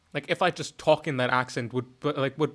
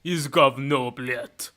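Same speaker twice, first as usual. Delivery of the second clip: casual Russian swearing; offhand Russian impression; Russian accent; much slower than usual. Shown as a demonstration. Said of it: "a higher Russian accent".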